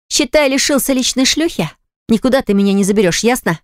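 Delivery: shouting. Acted. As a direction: fling it at him, hammed up. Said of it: "И тут она на него закричала".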